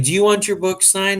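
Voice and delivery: high, lightly voiced offer to a kid; asking a child. Retelling Ryan offering to sign for the boy, high and kindly. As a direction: pitch it up for a little one.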